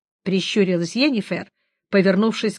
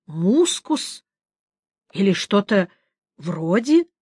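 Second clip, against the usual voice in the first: sniffing pointedly between words; sniffing the air; slower than usual. Acted. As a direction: talk while making a show of sniffing. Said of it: "Богольд демонстративно потянул носом".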